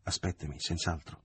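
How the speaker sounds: firm, through teeth. Acted. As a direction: set it down quietly through clenched teeth. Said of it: "disse con fermezza e quasi gli parve a denti stretti".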